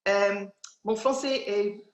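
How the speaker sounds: Scottish English accent speaking French; halting French with a Scottish accent; foreign accent in French. Real, not acted. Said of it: "mon français est pas, euh, pas bon".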